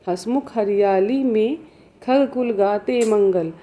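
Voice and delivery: slow, measured verse reading; poem recitation. Acted. Teacher reads the poem to students, slow recitation. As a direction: draw out each line of the verse, pausing between lines.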